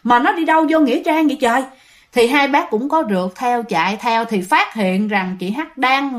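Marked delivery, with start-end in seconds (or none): 0.0-1.6 acted bewildered question, pitch lifted; startled disbelief. Parents see daughter turn into cemetery, acted startled disbelief. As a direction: play a taken-aback parent. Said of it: "hai bác mới hết hồn".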